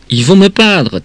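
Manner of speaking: put-on high-pitched insistent childish alarm; acted panicky wail; frightened child pleading. Child repeats fearful plea, escalating.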